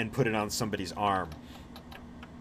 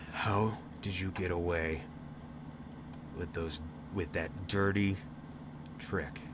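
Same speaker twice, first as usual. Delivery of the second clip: grimacing sore loser; 5 semitones lower, 10 dB quieter than usual. Acted. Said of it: "This guy just grimaces".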